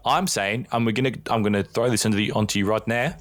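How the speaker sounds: attempted Australian accent, slipping towards South African. Podcast host throwing predictions to his co-host, shaky attempt at an Australian accent. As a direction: have a go at a playful Australian accent. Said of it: "In your best Australian accent".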